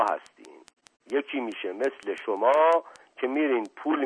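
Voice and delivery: a hint of a gruff street tough; rough butcher Shirali. Shirali grumbling at the gentlemen, lightly voiced butcher.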